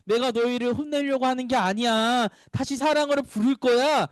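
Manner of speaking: a hint of a loving God; God reassuring children. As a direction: gently call them back. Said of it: "하나님은 이렇게 말씀하신 거예요".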